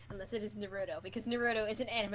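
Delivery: "Naruto" said wrong on purpose as a Vine quote; deliberate mispronunciation. Acted. Quoting the Vine to annoy a friend, deliberately misaccenting "Naruto". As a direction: mangle "Naruto" to needle the listener. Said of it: "It's purposely missaid to annoy you".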